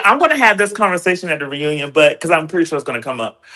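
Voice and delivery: echoey voice in a tiled bathroom; speaking in a small echoing bathroom. Real, not acted. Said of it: "I'm in the bathroom, so I'm echoing".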